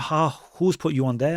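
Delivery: normal talking voice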